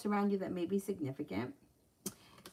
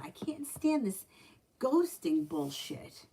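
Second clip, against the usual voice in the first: real exasperation, pitched up then dragged out slow; fed-up outburst; 4 semitones higher, slower than usual. Real, not acted. Reader venting to her viewers about ghosting, exasperated and slow. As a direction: spit out the last words slowly, truly fed up. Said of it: "it really pisses me off".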